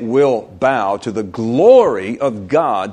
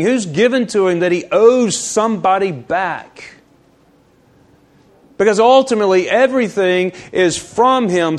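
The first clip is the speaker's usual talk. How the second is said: raised, emphatic sermon delivery; preaching; 7 semitones higher, 4 dB louder than usual. Real, not acted. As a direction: preach it out, driving the key words. Preaches, building in force.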